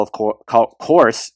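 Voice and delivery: slipping into a half Boston accent; a hint of Boston accent on course. Real, not acted. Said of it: "using my half Boston accent there".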